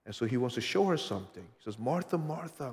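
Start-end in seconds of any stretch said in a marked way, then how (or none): 1.8-2.7 with affection. Acted. Jesus gently correcting Martha with tender affection. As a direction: say Martha, Martha gently, like caring for her. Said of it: "with affection".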